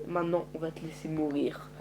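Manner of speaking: menacing whisper. Acted. Leader whispering a death sentence to the prisoner. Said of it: "unvoiced menace".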